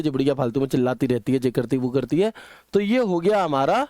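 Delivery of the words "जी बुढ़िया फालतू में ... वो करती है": fast, lower mock grumble; grumbling daughter-in-law. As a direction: rattle it off like a resentful bahu complaining behind her back. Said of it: "बड़बड़ाएगी". (नाराज़ बहू की तेज़, नीची आवाज़ में नकली बड़बड़)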